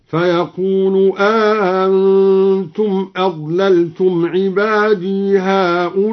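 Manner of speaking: slow melodic tajweed chant; Quran recitation. Shown as a demonstration. Recites the verse as demo. (تلاوة مرتلة بطيئة)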